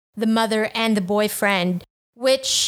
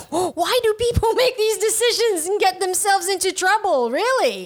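laughing; 8 semitones higher than usual. Real, not acted. Exasperated laughing rant.

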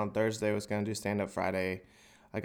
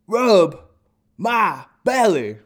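mock deep dog voice; 8 semitones higher, 11 dB louder, much slower than usual. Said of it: "I said".

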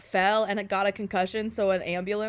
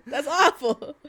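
laughing wince; 3 semitones higher, 3 dB louder than usual. Retold or imitated. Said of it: "it makes me go like".

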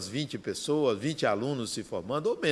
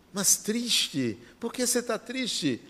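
much higher, softer, puzzled asking; puzzled question; 8 semitones higher, 3 dB quieter than usual. Retold or imitated. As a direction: ask it high and baffled, a touch hushed. Son puzzled by father's sadness. (pergunta surpresa e aguda, mais baixa)

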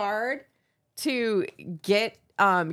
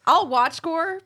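ordinary delivery

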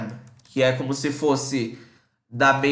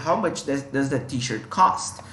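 slow example read; 2 semitones lower, slower than usual. Shown as a demonstration. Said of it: "Então, t-shirt".

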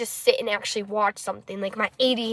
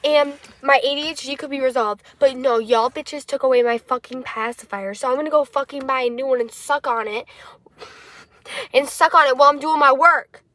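lively, mildly indignant rant; comic rant; 2 semitones higher, 3 dB louder than usual. Real, not acted. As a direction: rant with playful outrage. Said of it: "that was my little rant".

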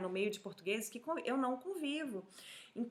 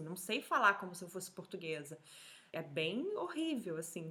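ordinary talk

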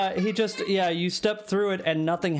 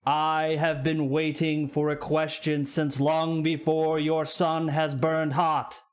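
slow, solemn ancient stone being; a lightly voiced cosmic guardian, drawn out; slower than usual. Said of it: "he just goes like".

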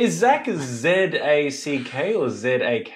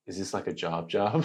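sarcastic; 7 semitones lower, 9 dB quieter than usual. Shown as a demonstration. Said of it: "Being sarcastic".

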